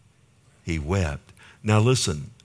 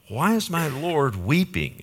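higher-pitched, puzzled character line; puzzled question; 7 semitones higher than usual. Acted. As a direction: lightly act out a baffled servant asking. Voices Hazael's puzzled question.

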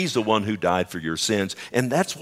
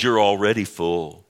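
dry mock praise; sarcastic; 3 dB louder than usual. Paul scolding the proud church, sarcastic mock praise. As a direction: praise them so they hear the jab.

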